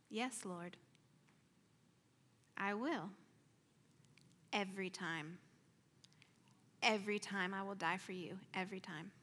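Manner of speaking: soft, hushed surrender with long pauses; tender, subdued devotion; solemn vow. Retold or imitated. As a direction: promise it quietly and devoutly. Retold vow to the Lord.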